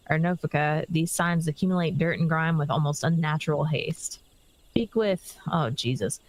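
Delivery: lightly voiced friendly villager reading quest text; a hint of a folksy quest giver. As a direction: read it like a game townsfolk.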